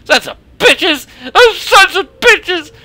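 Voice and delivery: slow, high, loud crying curse; sobbing curse. Acted. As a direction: curse them through sobs, slowly. Mother cursing through tears.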